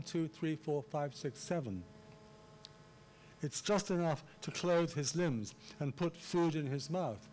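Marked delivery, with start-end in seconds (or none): 3.4-7.3 deliberate beats on JUST, ENOUGH, CLOTHE, LIMBS, PUT, FOOD, MOUTH; emphatic artificial reading. Shown as a demonstration. Lecturer reading Waley to show the rule, emphatic reading. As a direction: lean on each key word, "clothe his limbs", "food in his mouth". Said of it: "read it in a rather artificial way".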